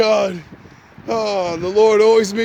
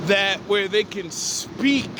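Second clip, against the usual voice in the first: loud slow question. Retold or imitated. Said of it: "And I said".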